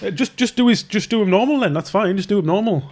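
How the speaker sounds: a caught-out client scrambling to take it back; flustered backpedal. Retold or imitated.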